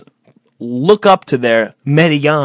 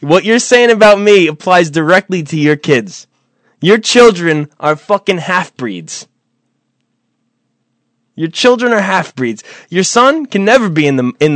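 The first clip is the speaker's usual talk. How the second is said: raised, taunting voice; heated taunting; 5 semitones higher than usual. Real, not acted.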